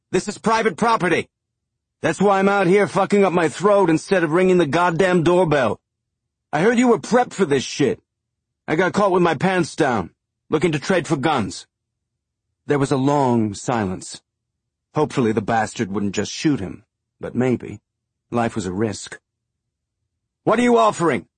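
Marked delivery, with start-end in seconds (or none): 0.1-11.7 high, loud, furious yelling from the house; shrill and angry. A narrator's reading. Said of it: "A man's voice came, shrill and angry". 20.4-21.3 high, loud call back; shouted question. A narrator's reading. Man shouting from house.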